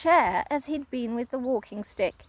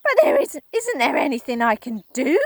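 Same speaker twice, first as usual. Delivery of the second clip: higher, louder desperate plea; Missus Twit pleading; 3 semitones higher, 7 dB louder than usual. Acted. Wife desperate for a cure, pleading cry. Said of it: "cried Missus Twit".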